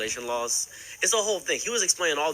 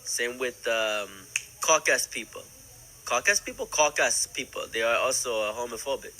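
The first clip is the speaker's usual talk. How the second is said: lightly put-on African accent; mock African accent for a retold quote; fake African accent; 2 semitones lower than usual. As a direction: imitate someone with an exaggerated African accent. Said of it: "without the fake accent".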